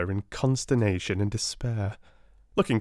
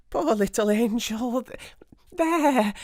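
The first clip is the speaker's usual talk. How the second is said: whispered coax; 13 semitones higher, slower than usual. A narrator's reading. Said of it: "Amelia switches back to soothing".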